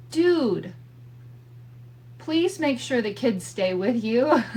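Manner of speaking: put-on wife begging husband to keep the kids close; exasperated plea. Pleading with husband.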